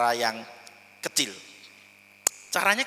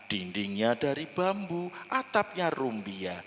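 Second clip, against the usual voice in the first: story narration; 3 semitones lower, 5 dB quieter than usual. Shown as a demonstration. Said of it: "Misalnya lagi".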